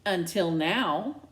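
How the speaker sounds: dry cutting remark; sarcastic. Acted. Daughter sarcastically finishing her dad's sentence. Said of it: "I finish sarcastically".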